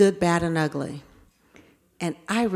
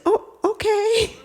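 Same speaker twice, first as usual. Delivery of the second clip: taken aback; 14 semitones higher than usual. Retold or imitated.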